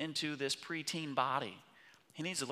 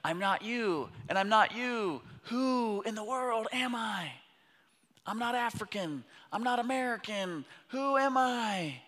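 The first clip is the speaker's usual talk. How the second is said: much higher and louder, the questions slowed; retold identity crisis; 10 semitones higher, 6 dB louder than usual. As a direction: cry out the friend's confusion about who he is. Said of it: "he's like".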